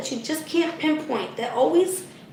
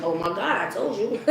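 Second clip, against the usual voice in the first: laughing told-you-so; 3 semitones lower, 5 dB quieter than usual. Retold or imitated. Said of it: "And I'm gonna be like".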